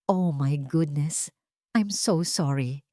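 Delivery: slow, soft, put-on apology; fake concern. Celestina to Amihan after spilling wine, falsely apologetic. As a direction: sweetly pretend to be sorry. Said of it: "Ang boses ay puno ng pekeng pag-aalala".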